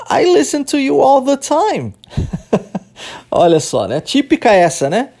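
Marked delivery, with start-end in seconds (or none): 0.1-1.9 high-pitched, acted protest; protesting retort. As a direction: object as if wrongly accused, pitch raised. Acted reply of a protesting man. (protesto encenado, em tom agudo)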